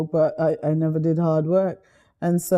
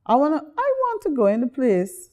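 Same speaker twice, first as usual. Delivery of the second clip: put-on childlike line in a light Guyanese accent; 8 semitones higher than usual. Recalling telling her grandfather, in a Guyanese accent. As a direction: lift it high, a child's plea in a Guyanese accent. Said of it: "I'm doing that in a Guyanese accent".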